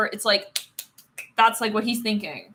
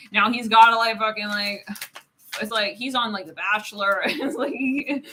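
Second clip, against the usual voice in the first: ordinary talk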